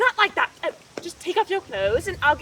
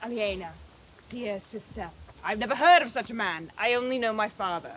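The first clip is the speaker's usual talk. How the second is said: lightly voiced young man; 5 semitones lower than usual. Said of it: "answer me as Mercury would".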